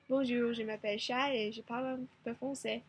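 French with a light foreign accent; "Bonjour, je m'appelle Shai" in learner's French; spoken in French. Shown as a demonstration. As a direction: en français avec un léger accent. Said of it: "the accent is not as great".

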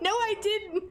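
high, breezy put-on voice denying it; lightly voiced denial. The husband denying he burned her, lightly voiced breezy denial. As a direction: play him shrugging it off innocently. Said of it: "He was like".

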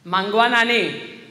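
loud, drawn-out call to the congregation; pastor's greeting. Acted. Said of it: "greeted the pastor as he processed".

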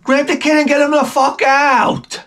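high, exasperated voice; fed-up parent. Retold or imitated. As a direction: snap at the parent to remove the kid. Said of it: "Or like this".

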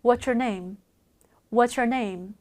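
"What's your name" with "What's your" blended into "wha-chur"; linked pronunciation. Shown as a demonstration. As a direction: link "What's your" smoothly, ts plus y becoming ch. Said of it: "연음 처리 해서".

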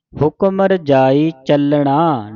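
slow recitation, ਚੱਲਣਾ with curled-tongue n; retroflex n. Shown as a demonstration. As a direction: stretch ਚੱਲਣਾ on its hard ਣ. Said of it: "ਨਾਣੇ ਦੇ ਨਾਲ". (ਚੱਲਣਾ ਨਾਣੇ ਨਾਲ, ਹੌਲੀ ਪਾਠ)

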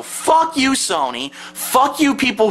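high, sharp "fuck you"; real angry outburst; angry curse. Real, not acted. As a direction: spit it at Sony. Cursing Sony.

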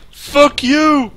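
angry. Real, not acted. Angry shout at screen.

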